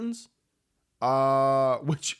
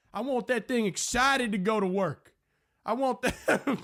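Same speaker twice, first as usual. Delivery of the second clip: higher, sleazy drawling radio host voice; perverted Southern radio host; 7 semitones higher than usual. Acted. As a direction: schmooze the ladies like a creepy late-night DJ. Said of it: "my impression of a perverted Southern radio host".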